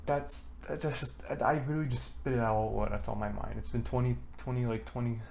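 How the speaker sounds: breathless after long talking; out of breath. Real, not acted. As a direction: talk short of air. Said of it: "I'm out of breath".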